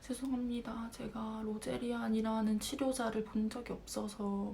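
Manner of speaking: soft, slow, humble explanation; meek apology. Retold or imitated. Student admitting ignorance to professors, meek and quiet. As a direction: apologize quietly and draw it out, imitating a cowed student.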